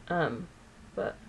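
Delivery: hiccuping mid-sentence; talking through the hiccups. Real, not acted. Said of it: "got the hiccups".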